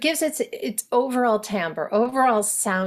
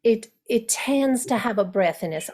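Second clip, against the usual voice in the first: overdone soft Southern. Shown as a demonstration. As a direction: lay the soft Southern US breathiness on thick. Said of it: "I'm overdoing it".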